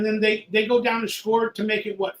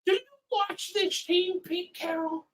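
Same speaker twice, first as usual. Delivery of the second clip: higher, incredulous dig at the coach; sarcastic jab; 8 semitones higher, 5 dB quieter than usual. Real, not acted. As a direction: needle him with disbelief. Fan heckling the coach.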